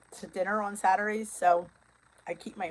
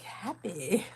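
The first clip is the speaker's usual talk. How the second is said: fake happy; 6 dB quieter than usual. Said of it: "So I'd be like".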